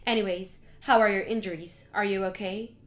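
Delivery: mother-in-law apologizes in a low voice; low grudging apology. Acted. Mother-in-law apologizes to Mary on phone, grudging. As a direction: say sorry without much heart, low.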